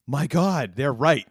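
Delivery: high, loud surprise; astonished at the photos; surprised realization. Retold or imitated. Realization while looking at photos.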